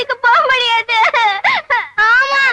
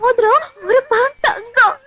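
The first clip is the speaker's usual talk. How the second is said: wailing over the lost ring; fake crying; 4 semitones higher than usual. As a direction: sob out the story of the ring. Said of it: "அழுகாதீங்க". (அழுதுகொண்டே புலம்பல்)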